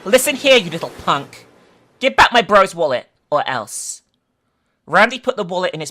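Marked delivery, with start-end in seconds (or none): 0.0-4.0 threatening. Acted. Jeff threatening the bully.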